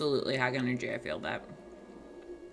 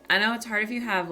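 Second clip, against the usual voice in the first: raised, faster projecting voice; projecting louder; 3 semitones higher, 3 dB louder, faster than usual. Shown as a demonstration. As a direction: push the voice out to the mic. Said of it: "This is me trying to yell right now".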